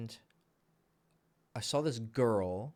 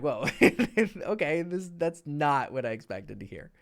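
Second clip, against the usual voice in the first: startled laugh; 4 semitones higher, 4 dB louder than usual. Retold or imitated. Imagined startled reaction, laughing.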